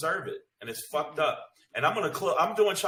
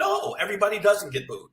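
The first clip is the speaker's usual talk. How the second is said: loud, heated shout; really getting worked up now; getting mad; 6 semitones higher, 4 dB louder than usual. Real, not acted. Comic ranting about booing, real angry shout. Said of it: "ugh, I'm getting mad".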